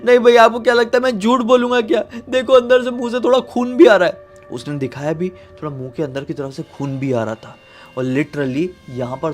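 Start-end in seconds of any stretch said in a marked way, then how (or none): 0.0-4.3 high, louder, quick tearful plea; tearful pleading child. Acted. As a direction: insist through tears, wounded and hurt. Hurt little brother pleads, crying. (रोते हुए ऊँची आवाज़ में गिड़गिड़ाना)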